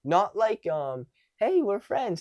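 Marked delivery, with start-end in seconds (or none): 1.4-2.2 high-pitched, overeager chumminess; too friendly. Shown as a demonstration. Coach shows what to avoid, too friendly. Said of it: "not too friendly".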